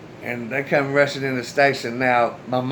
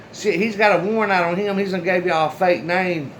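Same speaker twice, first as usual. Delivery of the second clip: urgent tip-off; 5 semitones higher than usual. Retold or imitated. Tipping off the cops.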